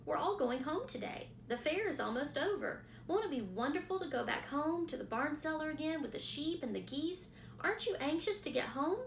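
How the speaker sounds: a hopeful piglet looking forward to home; eager young pig. Acted.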